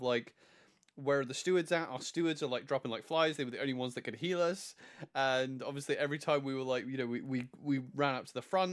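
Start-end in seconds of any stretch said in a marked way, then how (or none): none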